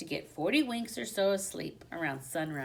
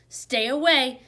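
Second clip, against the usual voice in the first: high, loud squeaky warning; squeaked warning; 5 semitones higher, 8 dB louder than usual. Acted. Hamster squeaks a warning at the dog, loud and high. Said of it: "I squeaked".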